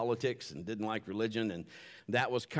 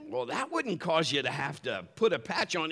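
pirate voice; 2 semitones higher than usual. Retold or imitated. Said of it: "my pirate voice".

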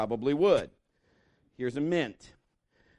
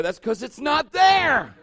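high, loud, slowing to a shout; exasperated raised voice; mock outburst; 10 semitones higher, 9 dB louder, slower than usual. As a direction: build to a comic yell. Mock outburst at own misreading.

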